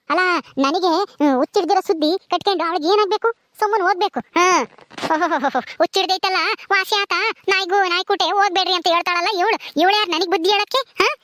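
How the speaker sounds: mildly acted huffy outrage; indignant scolding. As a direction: scold the maid for overstepping. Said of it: "ನೀನ್ ಅಷ್ಟಕ್ಕೇನೆ ಹಿಂಗೆ ರೇಗಾಡಿದ್ರೆ".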